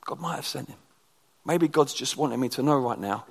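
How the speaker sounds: low, hushed voice of humble David; quiet, pensive surrender; humble acceptance. Retold or imitated. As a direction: sink low and soft, almost to a whisper. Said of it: "this extraordinary humility where David goes".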